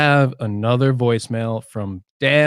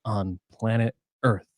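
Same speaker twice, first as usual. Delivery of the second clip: podcast host intro; slower than usual. Acted. Host welcoming listeners to Gadgetcast, announcer style. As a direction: open the show like a proud host.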